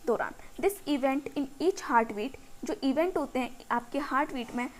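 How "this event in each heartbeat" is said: very slow, word by word, so students can write; slow textbook dictation. Shown as a demonstration. Teacher dictating the definition to her students, slowly. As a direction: read each English word out slowly and evenly.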